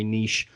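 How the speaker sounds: "niche" said as NEESH; French-style "niche" with a long ee and sh; neesh pronunciation. Shown as a demonstration. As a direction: rhyme "niche" with "leash". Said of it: "Midwest, we say niche".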